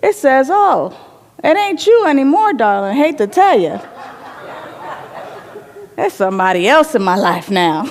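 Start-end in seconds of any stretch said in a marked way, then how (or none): 0.5-3.8 teasing mirror. Acted. Mirror voiced teasing the queen. 6.0-7.9 laughing mirror. Acted. Mirror's teasing punchline, laughing.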